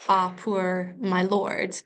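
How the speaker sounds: long, slow AH and POOR in "Ah, poor my lord"; drawn-out vowels. Shown as a demonstration. Teacher quoting Juliet to show vowel sounds, drawn-out vowels. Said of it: "the sounding of the ah".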